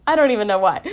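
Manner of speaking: laughing embarrassed. Real, not acted. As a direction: laugh through the words. Laughing at herself.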